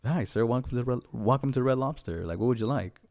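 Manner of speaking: a hint of an eager restaurant host; cheerful server. Red Lobster server greeting a customer, lightly voiced and upbeat.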